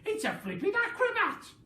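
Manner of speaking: amused Grandma. Acted. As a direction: marvel at the hen mockingly. Grandma voiced.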